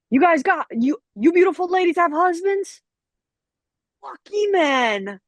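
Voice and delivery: high, loud mock construction worker; workers' catcall. Construction workers compliment the ladies, mock catcall voice. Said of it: "they were like".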